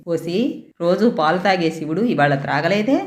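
mild fury, mostly understated; a father threatening his daughter; raging father. Acted. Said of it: "ఆక్రోశంతో". (ఆక్రోశంతో తండ్రి బెదిరిస్తూ)

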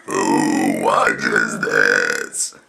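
words pushed out in one long deep burp. Real, not acted. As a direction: burp every word slowly. Talking while burping, burp challenge.

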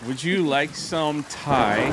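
slow, badly faked British accent; amateur British tea-time voice. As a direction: offer tea in a drawn-out mock British accent. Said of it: "best British accent".

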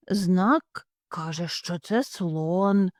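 slow, deliberate reading; father hare spelling out the sign; slow know-it-all father. Acted. Father hare reads the sign aloud, slow and sure.

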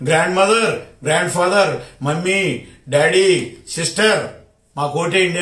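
lilting mock plea listing English kin words. Taunting the minister to canvass in English, mock singsong plea. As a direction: parody a politician begging in English. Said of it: "అని అడుగుండాల్సింది".

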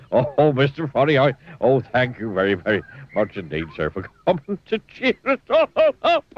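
thanks broken up by giggles; a zookeeper who can't stop giggling. Acted. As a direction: keep giggling while you thank him. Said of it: "giggled the zookeeper".

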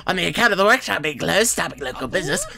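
high, loud put-on townsman voice; put-on NPC voice. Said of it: "I'm doing that voice".

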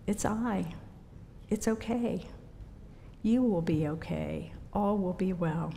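soft, calm and simple; gentle reassurance. Pretend. Jesus calming Peter on the water: gentle, soft reassurance. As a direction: soothe him gently, no reproach. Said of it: "Jesus was simply".

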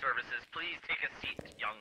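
soft, whispered cult leader. Pretend. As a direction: welcome them into the cult. Cult leader welcoming a ghost.

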